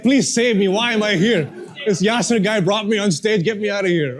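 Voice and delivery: hammed-up pleading, high and loud; mock prayer. Coach imitating nervous volunteer praying on stage, mock-pleading. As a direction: beg for rescue in jest. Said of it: "He's praying, like".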